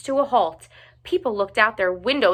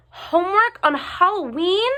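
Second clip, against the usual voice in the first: a high, whiny groan of protest; moaning; 10 semitones higher, 4 dB louder than usual. A narrator's reading. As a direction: moan the complaint, pitched up.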